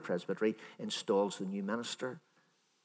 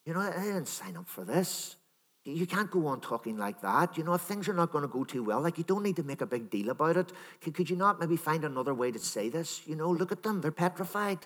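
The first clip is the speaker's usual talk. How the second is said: imagined pleading Peter; 5 semitones higher than usual. Pretend. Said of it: "maybe he said to him".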